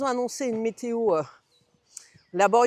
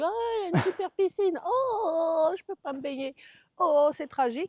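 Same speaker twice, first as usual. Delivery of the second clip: mock dramatic despair; 8 semitones higher than usual. Imagined quote, forgot swimsuit.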